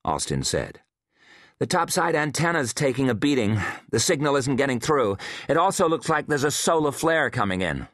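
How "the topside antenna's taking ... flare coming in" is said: lightly voiced woman scientist, concerned; a hint of a worried colleague giving bad news; Hensley reporting. A narrator's reading.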